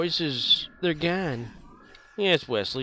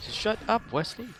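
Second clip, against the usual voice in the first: lightly voiced Crusher telling Wesley off; a hint of Doctor Crusher snapping at her son; Crusher line; 10 semitones higher than usual. Chat asks for Crusher, light mock scolding. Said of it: "Now we need Crusher saying shut up".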